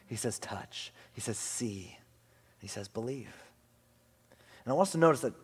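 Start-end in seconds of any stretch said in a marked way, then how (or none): 0.1-0.4 gentle hushed invitation. Acted. Pastor voices Jesus' gentle invitation. 0.4-0.9 breathy whisper, very soft; a tender whispered "Touch"; whispered invitation. Acted. Jesus' hushed invitation. 1.1-3.3 gentle hushed invitation. Acted. Pastor voices Jesus' gentle invitation.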